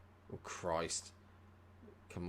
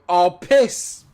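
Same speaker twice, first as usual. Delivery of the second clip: loud, higher exasperated yell; frustrated outburst; 9 semitones higher, 18 dB louder than usual. Real, not acted. Watching the opponent break through, a loud frustrated yell. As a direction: blurt out the annoyance. Opponent attack, near miss.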